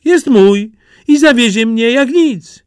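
put-on high, eager country-boy voice; a naive lad dead set on a bride; eager simpleton Jaś. Jaś boasts about his goat.

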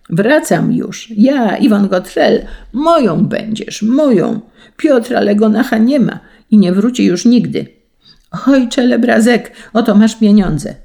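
high, loud frenzied yelling; shouting like a madman. A narrator's reading. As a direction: scream it out across the sea like a man gone mad. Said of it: "krzyczeć począł jak szalony".

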